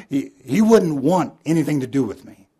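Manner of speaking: loud, high retold outburst; imitated indignant husband's rejection; angry refusal.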